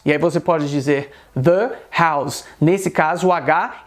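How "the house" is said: "the house" said "thuh house", H sounded; short schwa in "the", then breathe the H of "house"; "the" before consonant. Shown as a demonstration. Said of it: "ele não é mudo".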